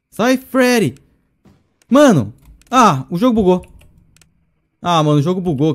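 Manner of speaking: loud, high exasperated outburst; frustrated yell. Real, not acted. Player yelling that the game bugged, exasperated. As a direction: vent at the broken game.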